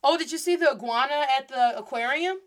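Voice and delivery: iguana with a short English first vowel; chatty question with American iguana; English pronunciation. Shown as a demonstration. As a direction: say iguana the English way, rising at the end. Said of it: "in English we say iguana".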